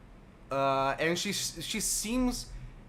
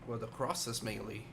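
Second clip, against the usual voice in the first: put-on very old man; 2 semitones lower, 5 dB quieter than usual. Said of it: "a very frail old man".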